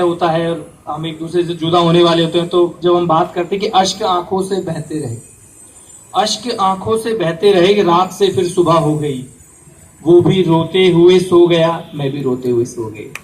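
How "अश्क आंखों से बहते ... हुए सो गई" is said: poem recitation. Acted. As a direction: recite it measured, letting the ending sink. Recites verse on tearful parting. (विरह की कविता का पाठ)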